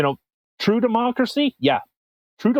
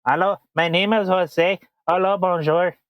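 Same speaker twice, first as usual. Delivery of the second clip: mock French Mexican accent. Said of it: "I'm getting into".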